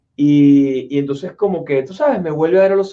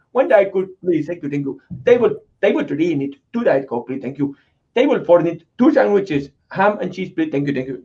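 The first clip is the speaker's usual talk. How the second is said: put-on Indian accent orders. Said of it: "hablar con acento".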